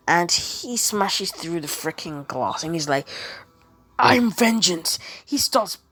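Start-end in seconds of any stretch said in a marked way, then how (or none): 4.0-5.0 slow, weighty hero line; a hint of a brooding Batman; lightly voiced Batman. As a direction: announce yourself slowly as a mock Batman. Deku as Batman announces himself.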